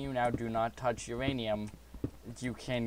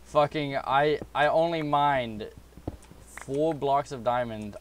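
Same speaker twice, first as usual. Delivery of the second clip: excited; 4 semitones higher, 6 dB louder, slower than usual. Real, not acted. Thrilled about the diamonds.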